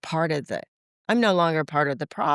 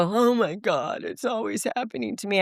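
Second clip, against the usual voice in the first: mock self-pity; 4 semitones higher than usual. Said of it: "I don't go".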